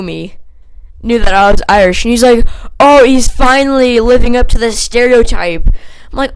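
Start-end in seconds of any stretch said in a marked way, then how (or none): 2.8-5.7 loud, higher mocking jeer; raised-voice mock taunt; retold taunt. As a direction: imitate a bully announcing it to everyone.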